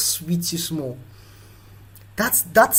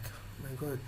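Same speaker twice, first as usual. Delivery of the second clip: very soft, low mock groaning words; faking sick; 4 semitones lower, 19 dB quieter than usual. Recovered child acting still sick for siblings, feigned weakness. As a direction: play feebly ill, barely voiced. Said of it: "just do as if you're sick".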